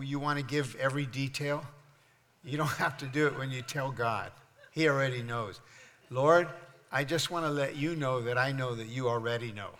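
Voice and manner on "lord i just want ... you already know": mock prayer. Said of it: "I'm joking".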